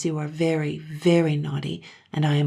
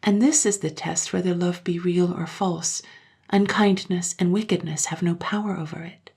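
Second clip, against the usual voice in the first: gentle; 3 semitones higher than usual. Acted. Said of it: "she said gently".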